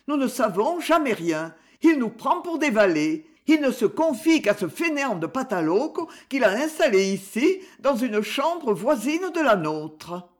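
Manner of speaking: lightly voiced Perrine, troubled. (jeune épouse inquiète, voix légèrement aiguë)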